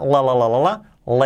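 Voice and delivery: LA repeated with a firm L; well-marked L. Shown as a demonstration. Teacher drills the L of listen, well-marked L. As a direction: hit each L in "la". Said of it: "bien marcada".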